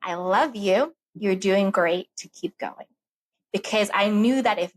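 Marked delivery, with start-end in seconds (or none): 0.0-2.8 tender reassurance to sister. Retold or imitated. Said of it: "what I said to her was".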